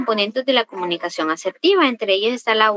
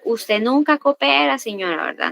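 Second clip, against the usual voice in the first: aggressive; 3 semitones higher than usual. Shown as a demonstration. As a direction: demonstrate a mildly aggressive reproach to a client. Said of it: "Comunicación agresiva". (reproche agresivo, actuado sin gritar)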